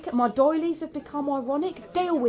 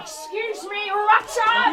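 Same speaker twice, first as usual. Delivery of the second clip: higher, rising to a shout; indignant call; 8 semitones higher, 7 dB louder, slower than usual. Acted. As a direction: call him out sharply by name. Accosting Richard angrily.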